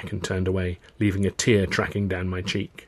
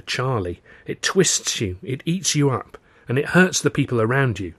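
lightly voiced woman pleading with her partner; earnest, pained Tilly; 2 semitones higher, 3 dB louder than usual. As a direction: plead earnestly, slightly lifted voice.

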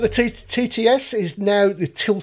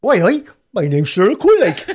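laughing Geordie impression; cheeky Geordie with a giggle; impression of a singer. Showing off a singer impression to the panel, laughing Geordie. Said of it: "I can do Cheryl Cole as well".

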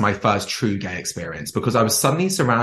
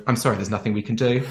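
quick deadpan turn; bitchy deadpan rejection; flat dismissal; 2 semitones higher, faster than usual. Retold or imitated. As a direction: drop the act and shut him down fast. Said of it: "without missing a beat, you just go".

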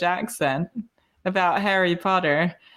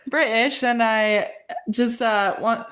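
British accent; 3 semitones higher than usual. Shown as a demonstration. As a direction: awkwardly put on a British accent. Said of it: "put on a British accent while you talk".

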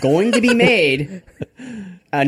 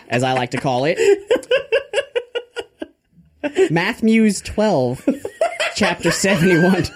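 lightly voiced mock preacher, rising as he goes; Father Grandfather; 3 semitones higher than usual. Preacher citing hidden bible knowledge, lightly hammed-up sermon. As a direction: stretch out the scripture, then lift into mock warning. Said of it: "motivational speech on the Lord Baby Jesus by Father Grandfather".

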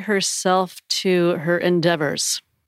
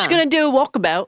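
higher, quick, badly faked Australian accent; attempted Australian accent; 5 semitones higher, faster than usual. Co-host echoing the walkabout line in a bad Australian accent. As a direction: have a poor go at an Australian accent. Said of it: "I can't do the accent either".

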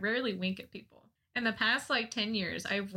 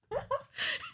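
high laugh; 3 dB quieter than usual. Real, not acted. Laughing at end of story.

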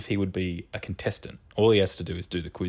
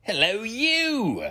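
hello calls echoing and fading away; cave echo; 3 semitones higher, much slower than usual. Pretend. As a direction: call out as if into a cave. Calling hello into the void.

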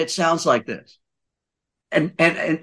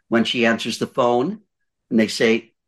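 ordinary talk, nothing marked

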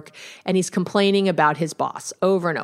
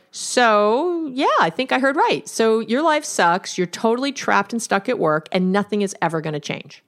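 provocative reflection; 3 semitones higher than usual. Shown as a demonstration. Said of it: "I would do it again and say".

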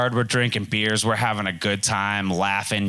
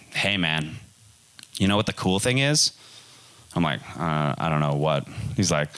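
low dude voice; 5 semitones lower than usual. Retold or imitated. Friend Mike's smug advice.

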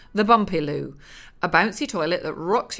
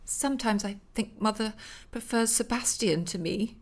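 1 piping daughter; 3 semitones higher, 5 dB quieter than usual. Acted. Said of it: "she piped".

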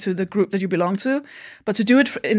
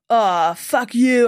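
mock shout; 3 semitones higher, much slower than usual. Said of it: "I shouted at my racist uncle".

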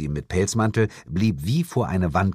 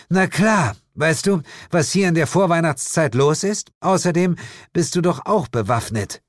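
Jane's reply; 8 semitones higher than usual. A narrator's reading. Jane answers.

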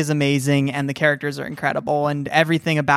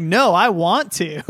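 put-on bratty little kid; 3 semitones higher, slower than usual. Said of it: "snot-nosed little eight-year-old kid".

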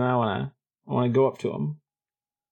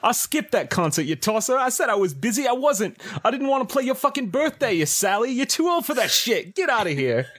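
put-on Australian accent. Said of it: "that explains the accent".

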